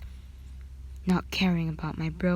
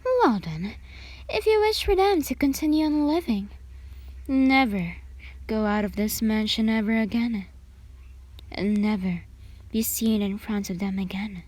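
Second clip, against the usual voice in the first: furious threat; 4 semitones higher than usual. Acted. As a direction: spit out the warning, hitting never. Threat to the family.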